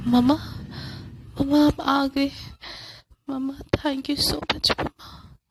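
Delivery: relieved thanks. Acted. Relieved girl thanks mom.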